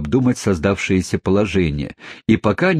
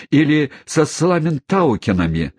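dismayed cry pitched higher; exclaiming; 7 semitones higher than usual. Acted. Mother fretting about facing the neighbours, high exclamation. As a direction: toss the name up in alarm. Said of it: "воскликнула миссис Напкинс".

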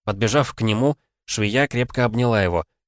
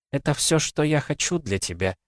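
ancient oracle voice; 8 semitones higher than usual. Acted. Oracle's farewell.

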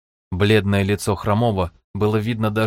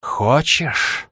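higher, coaxing whisper-like tempt; insinuating voice; 4 semitones higher than usual. Acted. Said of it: "вкрадчивый голос в голове".

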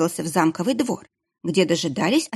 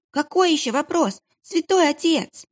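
put-on high, whining child's voice; whimpering boy; 10 semitones higher than usual. Kitchen boy whines back at the monk, high and whimpering. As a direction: whimper it like a scared kid. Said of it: "захныкал поварёнок".

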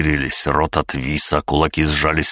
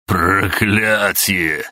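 wild unhinged ranting; 4 semitones higher, much slower than usual. Acted. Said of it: "безумно расхохотался".

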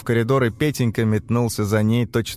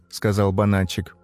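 usual speaking voice

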